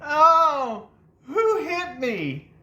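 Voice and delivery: high, slow, dazed whine; high, slow daze of a brother just hit. Retold or imitated. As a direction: groan it out, slow and high, rubbing his head. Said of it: "He goes".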